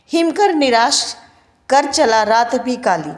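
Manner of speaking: lifted, measured reading of a verse; poem recitation. Shown as a demonstration. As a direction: read the line out like a poem. Teacher recites poem line.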